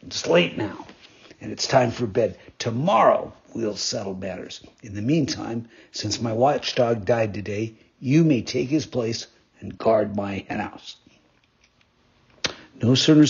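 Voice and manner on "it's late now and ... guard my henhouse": roughly. Acted. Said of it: "said to him roughly".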